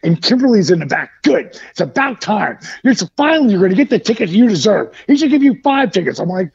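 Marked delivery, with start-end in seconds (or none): 1.2-6.2 quick, higher gloating scolding; imitated nagging wife. Wife gloating to husband over ticket, mock nagging. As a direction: rattle off a mock telling-off from the back seat. Wife's nagging from back seat, acted.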